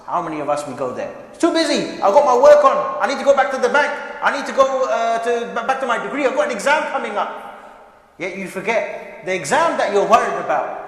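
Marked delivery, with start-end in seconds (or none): 1.3-7.5 mock excuses. Mocking people's excuses.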